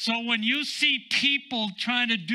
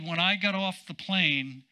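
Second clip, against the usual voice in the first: T L Osborne's way of talking; 2 semitones lower than usual. Retold or imitated. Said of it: "this is how he talked".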